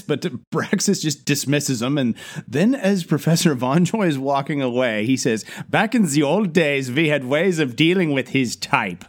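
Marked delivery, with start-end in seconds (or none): 5.7-9.0 imitated German accent, mildly menacing. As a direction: do a scary German professor. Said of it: "really fucking scary in a German accent".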